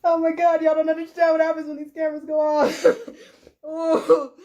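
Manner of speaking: half laughing, half crying; breaking into laughter while crying; laughing through tears. Real, not acted. Laughing-crying rant to camera.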